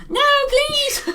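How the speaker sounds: high, loud laughing cry; laughing plea. Acted. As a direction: beg for mercy through laughter. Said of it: "do your Henry Cavill voice".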